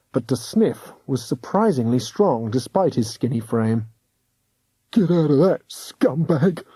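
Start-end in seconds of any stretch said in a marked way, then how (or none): 4.9-6.6 snarled. A narrator's reading. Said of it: "he snarled".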